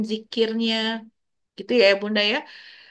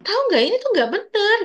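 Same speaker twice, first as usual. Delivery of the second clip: much higher, louder sharp scold; reactive scolding; 11 semitones higher, 4 dB louder than usual. Shown as a demonstration. Hasty parent scolding fighting kids, loud high scold. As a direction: snap at the kids as a bad example. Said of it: "Nggak perlu langsung bereaktif".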